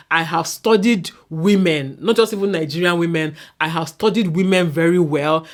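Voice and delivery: ordinary talk, nothing marked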